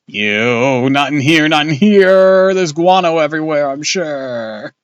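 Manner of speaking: loud, high frantic yelling; panicked shout. A narrator's reading. Boy yells about guano among bats. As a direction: yell it in disgusted panic.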